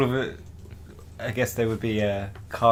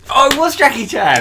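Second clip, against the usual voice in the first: high, loud realization; surprised; 11 dB louder than usual. Real, not acted. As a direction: gasp it out as the answer lands. Reaction to reveal.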